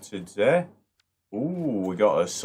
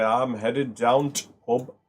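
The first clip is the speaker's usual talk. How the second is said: put-on slow, light Yorkshire accent, "down to pub" without the; Yorkshire local; 4 semitones higher, 4 dB louder than usual. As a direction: imitate a Yorkshireman heading to the pub. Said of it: "They'll say".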